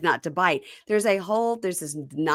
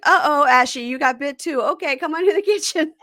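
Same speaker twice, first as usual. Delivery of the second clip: put-on high, louder coaxing to a child; sing-song dad; 9 semitones higher, 5 dB louder than usual. Alex soothing a bitten child, high sing-song. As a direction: coax the bitten kid kindly, up high. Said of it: "Alex is like".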